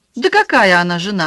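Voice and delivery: plain reading voice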